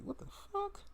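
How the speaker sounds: high put-on voice of a surprised teammate; imitating AD. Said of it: "A D like".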